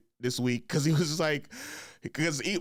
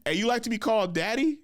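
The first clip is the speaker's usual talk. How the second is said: laughing while quoting; 6 semitones higher than usual. Retold or imitated. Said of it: "one of the students walked up to him and said".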